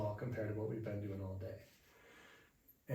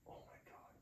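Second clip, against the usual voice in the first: very soft, retold wonderment; hushed awe; 5 semitones lower, 13 dB quieter than usual. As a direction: drop to a near-whisper, as if newly converted. Retells awed conversion after monk's teaching.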